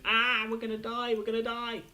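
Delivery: half-hearted mock scream; mock panic. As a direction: toss it off as a hammed-up panicking doctor. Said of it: "running around screaming".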